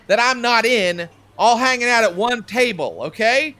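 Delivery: needy manager voice; eager needy boss. Acted. Manager pleading to be liked.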